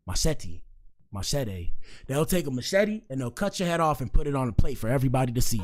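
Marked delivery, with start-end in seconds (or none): 0.1-0.6 "Machete" in an island accent, broad "mah-SHEH-tee". Shown as a demonstration. Host showing the island accent for "Machete". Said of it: "How do you say that in the accent?". 1.1-1.7 "Machete" island style, ending "mah-SHEH-day"; island accent. Shown as a demonstration. Host repeating "Machete" in the island accent. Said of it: "How do you say that in the accent?".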